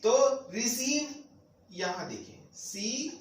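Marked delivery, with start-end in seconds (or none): 0.5-1.1 रिसीव said slowly with a stretched सीव; slow stressed. Shown as a demonstration. Teacher stressing रिसीव for students, slow and stretched. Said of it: "इसको भी थोड़ा stress बोलना है".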